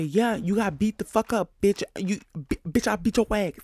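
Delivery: mock Rolly bragging. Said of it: "how Rolly likes to lie and say".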